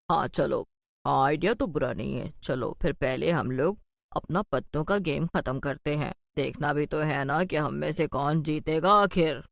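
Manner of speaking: lightly voiced witch, unbothered; low witch voice. Another witch agrees casually. (धीमी हल्की चुड़ैल की आवाज़)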